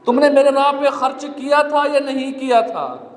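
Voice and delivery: earnest sermon delivery in measured phrases; preaching. Real, not acted. Preacher warning believers they will answer to Allah, earnest preaching. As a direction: preach it phrase by phrase, pausing between points.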